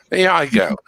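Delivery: put-on phony British accent. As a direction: launch into an amateur British accent. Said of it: "I'm gonna try to put on a British accent".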